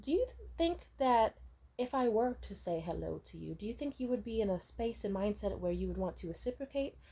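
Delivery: soft, measured, overly polite reply; quietly calm answer to a raging mom; calm and eloquent. Retold or imitated. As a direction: defuse her quietly with careful courtesy. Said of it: "how do you stay so, like, calm and eloquent".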